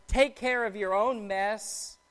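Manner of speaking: weight on "own", slowing at the end; stress on "own". Shown as a demonstration. Mom's implied message after dinner, stress on "own". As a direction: draw attention to "own". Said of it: "There's emphasis on the word own in that sentence".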